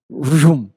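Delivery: loud rolling vroom noise; mouth-made engine whoosh; imitated vroom. Shown as a demonstration. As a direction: vroom like something shooting past. Mimics stock plunging.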